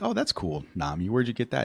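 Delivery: high, sweet lovestruck voice; mock Sanji swooning. Sanji gushing sweetly to Nami, high and lovestruck. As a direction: gush over Nami in a high voice. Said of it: "And he's like".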